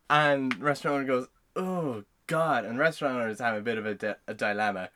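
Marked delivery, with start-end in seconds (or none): 1.6-2.7 shocked. Acted. Owner shocked by song title.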